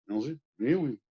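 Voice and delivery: put-on thick French accent. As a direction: murmur it like a French charmer. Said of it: "Very thick French accent".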